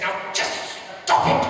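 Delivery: slow, tight mock-royal reprimand; hushed scolding queen. Queen repeating herself to a laughing guest, hushed scolding. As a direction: tell them off slowly, half-voiced.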